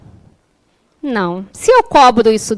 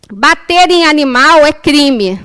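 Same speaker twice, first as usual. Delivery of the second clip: slow, emphatic statement; quoted declaration; slower than usual. Retold or imitated. Speaker quotes a psychologist's post, slow emphatic declaration. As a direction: state it deliberately, word by word. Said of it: "um post dela falando assim".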